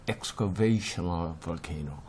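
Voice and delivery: "excavational volcano" very slow, stress driven into VA; emphatic English pronunciation. Shown as a demonstration. Teacher contrasting two volcano types, slowly and forcefully stressing "excavational volcano". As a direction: lean hard on the stressed syllables of "excavational volcano". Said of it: "영어를 발음할 때 좀 강하게".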